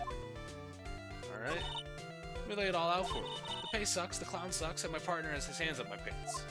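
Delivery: high, sneering puppet rant; bratty dummy trash-talking; cocky puppet voice. Acted. Puppet rants about circus.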